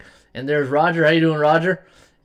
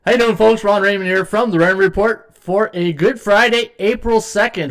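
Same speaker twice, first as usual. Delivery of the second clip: show intro; 5 semitones higher, 4 dB louder than usual. Shown as a demonstration. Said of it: "I always forget to do that".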